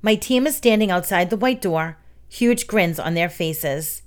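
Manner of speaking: usual speaking voice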